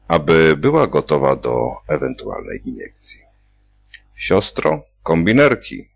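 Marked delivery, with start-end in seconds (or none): 4.1-5.9 high, sharp barked order to the nurse; snapped order. A narrator's reading. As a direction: snarl it at the nurse. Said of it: "warknął docent Basset".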